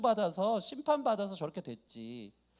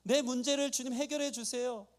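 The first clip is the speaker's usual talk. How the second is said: mildly raised, insistent prayer; acted earnest pleading; 4 semitones higher than usual. Believer begs the nearby Lord for help, mildly urgent plea. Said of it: "이 간절함이 있는데".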